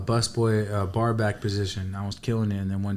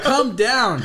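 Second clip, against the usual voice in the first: mom's order; 10 semitones higher, 4 dB louder than usual. Retold or imitated. Mom voiced in story.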